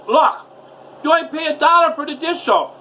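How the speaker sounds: put-on high, loud, enraged yelling at the girlfriend; furious yelling. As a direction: scream it out in disbelief, slowing on powdered dish soap. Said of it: "I was screaming and yelling".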